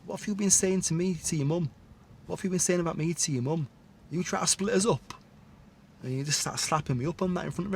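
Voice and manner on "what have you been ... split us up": mock Eastern European accent, a touch quicker; his Eastern accent. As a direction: lightly imitate the boyfriend's Eastern accent, accusing. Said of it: "in his accent".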